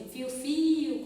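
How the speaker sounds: stretched-out spoken whistle noise; imitated whistling. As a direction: imitate a whistle with drawn-out syllables. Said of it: "quando a pessoa está assobiando".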